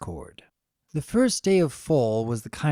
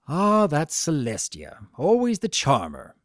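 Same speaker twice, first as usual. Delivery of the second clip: dry. Acted. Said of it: "Discord observed dryly".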